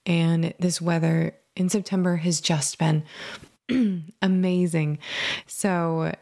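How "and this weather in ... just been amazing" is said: slightly scratchy, allergy-rough voice; a little scratchy from allergies. Real, not acted. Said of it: "excuse my little scratchy voice".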